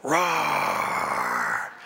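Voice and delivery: low, deep growled roar; bear roar. Acted. Grizzly bear roaring at the atheist, deep growl. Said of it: "bear standing there going".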